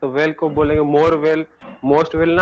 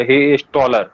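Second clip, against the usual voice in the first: slow example; much slower than usual. Shown as a demonstration. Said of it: "word में लगा देंगे ER".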